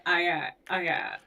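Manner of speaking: speaking with lips held apart; lips not touching. Retold or imitated. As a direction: talk without letting your lips touch. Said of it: "their lips can't touch".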